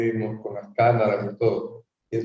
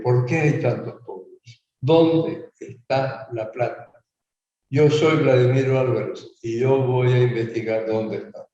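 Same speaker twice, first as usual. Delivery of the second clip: campaign spot delivery. Retold or imitated. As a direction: re-enact your ad to camera. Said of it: "me enfoca a mí y yo digo". (spot electoral, pausado y solemne)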